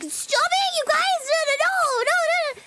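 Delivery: nervous high voice. Retold or imitated. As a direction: squeal it out, embarrassed by chat. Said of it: "you get nervous".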